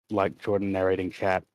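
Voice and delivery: flat, lifeless chat reading; monotone voice. Shown as a demonstration. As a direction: read it with no life. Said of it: "reading it in a very monotone voice".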